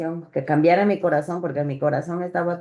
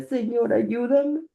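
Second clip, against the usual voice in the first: tearful prayer; 5 semitones higher than usual. Retold or imitated. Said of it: "me arrodillaba y lloraba y le decía".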